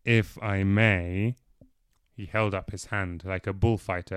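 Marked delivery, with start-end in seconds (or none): 0.0-1.3 slow, careful and hesitant; cautious. Acted. Alfred carefully breaks the silence, cautious. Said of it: "with unaccustomed caution".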